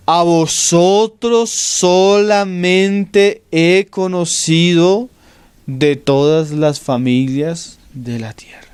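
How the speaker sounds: slow, solemn Bible reading that fades to a whisper at the end; solemn scripture reading. Acted. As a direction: read the verse slowly and let it die away. Scripture read slowly, fading to whisper. (lectura bíblica solemne y lenta)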